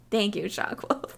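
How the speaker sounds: soft voiceless thank-you with a laugh; whispered thanks. Real, not acted. Vlogger thanking Shockwolf in chat, whispering. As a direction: whisper a quick aside to a viewer.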